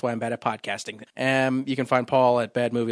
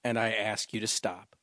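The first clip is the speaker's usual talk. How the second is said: low, soft, solemn reproach; disapproving sister; 5 semitones lower, 7 dB quieter than usual. Acted. Sister pleading with her brother, disapproving sister. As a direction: lower and hush it into a grave plea. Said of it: "She'll say".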